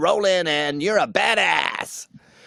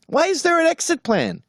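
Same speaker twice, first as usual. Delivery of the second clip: indignant; 14 semitones higher than usual. Real, not acted. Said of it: "indignant rant".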